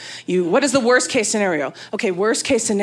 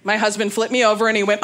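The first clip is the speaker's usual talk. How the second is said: ordinary talk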